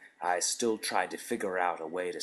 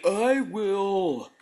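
loud eager interruption; eager shout; 13 semitones higher, 11 dB louder than usual. A narrator's reading. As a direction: blurt it out loudly. Eager volunteer cuts him off.

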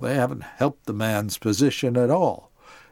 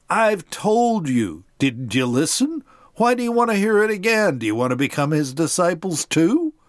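mildly frustrated; 4 semitones higher than usual. Acted. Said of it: "He's probably a little frustrated too".

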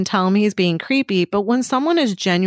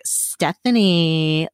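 creepy tone; 3 semitones lower, much slower than usual. Retold or imitated. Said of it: "like, that tone".

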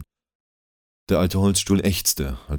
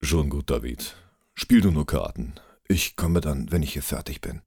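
lightly lowered calm voice; a touch deeper, friendly. Acted. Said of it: "entgegnete mit tiefer Stimme".

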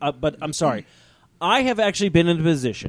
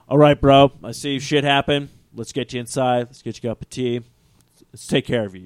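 lightly voiced chummy bro, settling lower; Jesus; 4 semitones lower than usual. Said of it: "that's how Jesus talks to me".

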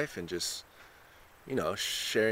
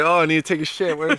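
high, loud freaked-out city slicker; urgent tourist who needs a toilet; panicky city person; 8 semitones higher, 9 dB louder, faster than usual. Retold or imitated.

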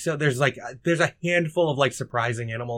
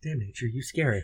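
quoting Family Guy; 7 dB quieter than usual. Retold or imitated. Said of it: "It's just that line".

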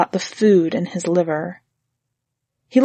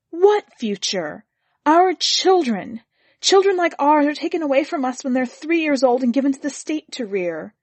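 wife's outburst; 4 semitones higher than usual. Acted.

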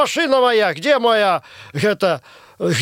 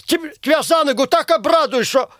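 angry threat; 6 semitones higher than usual. Acted. Furious threats at the prankster.

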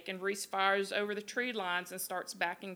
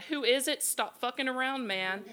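higher, louder mock yell easing off; retold yell; 4 semitones higher, 4 dB louder than usual. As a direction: imitate calling out through a door. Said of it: "They keep yelling outside".

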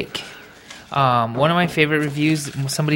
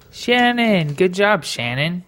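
excited cheering; 7 semitones higher, slower than usual. Real, not acted. Cheering the winner.

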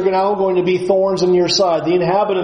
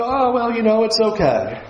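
high, breezy brush-off; dismissive shrug; 4 semitones higher than usual. Retold or imitated. Preacher voicing us shrugging off our sin, high and breezy. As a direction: wave it away like it's nothing. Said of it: "We sit back and go".

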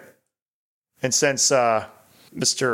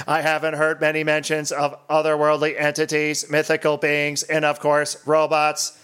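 robot voice. Acted. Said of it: "to be read in an eighties robot voice".

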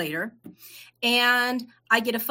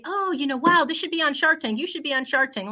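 higher, wowed by the product; gushing excitement; 6 semitones higher than usual. Retold or imitated. Customers urging her onto Shark Tank, gushing. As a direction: mimic an impressed fan. Acting gushing strangers' repeated suggestion.

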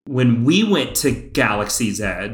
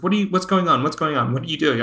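bewildered onlooker; 5 semitones higher, much faster than usual. Retold or imitated. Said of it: "I'm, like, freaking out. She's like".

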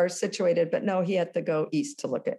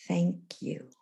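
soft whispered thank you, barely voiced; 3 semitones lower, 6 dB quieter than usual. A husband quietly thanks his son for feedback, whispered. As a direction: breathe the words like a hushed reply. Husband's first words, quoted.

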